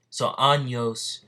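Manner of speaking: winded, short of breath; talking while out of breath. Real, not acted. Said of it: "I'm getting out of breath".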